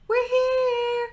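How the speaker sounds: high, fast, squealing dog voice; high frantic puppy voice; excited pet voice. Pretend. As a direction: gush like a dog overjoyed to see its owner. Pet voice again.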